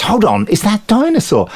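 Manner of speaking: high mock disbelief; lightly hammed film character; character's question. The narrator imitates the character in high mock disbelief. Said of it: "And then he goes".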